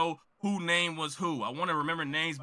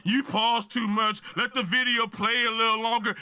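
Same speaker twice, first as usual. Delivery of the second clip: mocking a commenter; 4 semitones higher than usual. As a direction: mimic the critics with a put-on voice. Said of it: "I heard all the comments".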